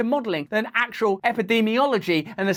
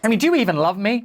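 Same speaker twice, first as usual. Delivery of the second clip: mock needy plea; 4 dB louder, faster than usual.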